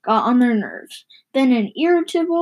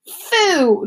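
mild shout; 6 semitones higher, 3 dB louder than usual. Acted. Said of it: "shouted Rashid Khalifa's voice".

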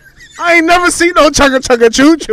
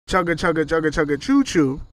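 chugging toy train voice; 8 semitones lower, 7 dB quieter than usual. Shown as a demonstration. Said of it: "When you hear somebody say".

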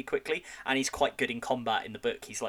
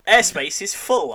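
game voice; 7 semitones higher, 9 dB louder, slower than usual. Retold or imitated. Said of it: "I kept saying".

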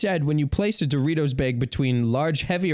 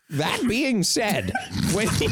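put-on old man voice; 5 semitones higher than usual. Shown as a demonstration. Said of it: "Just do an old man".

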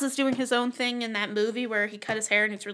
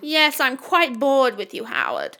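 bored diva; 3 dB louder, slower than usual. Pretend. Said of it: "sucking back on my cigarette".

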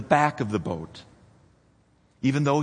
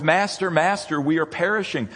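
high, louder plea of frightened disciples, Master, Master; desperate cry; 5 semitones higher, 4 dB louder than usual. Retold or imitated. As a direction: call out in panic over the storm. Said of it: "Luke records".

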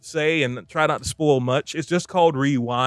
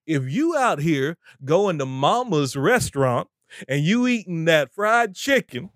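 getting worked up; 3 semitones higher than usual. Real, not acted. Preacher confronting diners at mama's restaurant, getting worked up. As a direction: draw it out, climbing in pitch as it gets heated. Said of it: "have to calm down on that".

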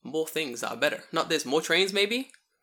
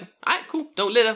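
high, louder breezy mock warning; laid-back cop; 9 semitones higher, 8 dB louder than usual. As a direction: toss off a friendly cop's warning. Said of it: "He's like".

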